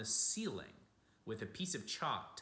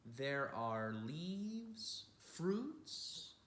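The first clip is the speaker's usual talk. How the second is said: lightly voiced old artist, higher and dreamy; a hint of an old man's wonder; old Matisse voice; 7 semitones higher, 4 dB louder than usual. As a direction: speak as the old painter showing his garden. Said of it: "quoted Matisse speech".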